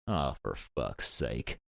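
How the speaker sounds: slow, low, fed-up groan; exasperated. Acted. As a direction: drag it out in exasperation.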